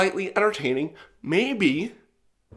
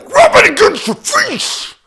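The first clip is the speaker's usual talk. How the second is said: high, loud yell, far above usual voice; exasperated yell; 9 dB louder than usual. Retold or imitated. Customer orders employee to test cardboard on his face, exasperated yell. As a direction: shout it as a forceful demand. Exasperated repeat of retold demand.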